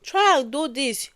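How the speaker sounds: slow, soft, gentle plea; calm, polite coaxing; calm begging. Acted. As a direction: beg a child politely, drawing the words out. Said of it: "in a very calmly voice".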